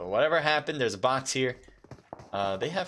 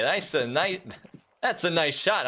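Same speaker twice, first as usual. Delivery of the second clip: put-on Italian accent; 6 semitones higher than usual. Caster praising a sniper's shot, in a mock Italian accent. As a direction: slip into a playful Italian accent praising "that's a nice shot". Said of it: "I don't know why I turned Italian there".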